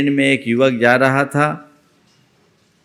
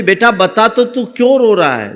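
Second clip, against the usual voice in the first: more loving; 9 semitones higher, 3 dB louder than usual. A narrator's reading. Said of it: "और ज़्यादा प्यार से बोली".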